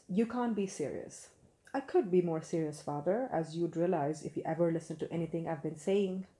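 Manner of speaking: projected read-aloud with light character; reading dialogue aloud. Acted. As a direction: read out a father-son exchange, lightly dramatized. Reads the book's first page aloud.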